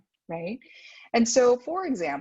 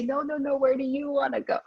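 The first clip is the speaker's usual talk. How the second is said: polite Asian adults deferring; 5 semitones higher than usual. Retold or imitated. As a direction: act out hesitant hosts who each insist the other should choose. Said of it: "'cause they say".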